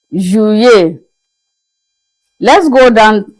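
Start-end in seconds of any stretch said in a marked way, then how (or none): 0.1-1.0 "Juillet" in French, two clear syllables. Shown as a demonstration. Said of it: "French is juillet".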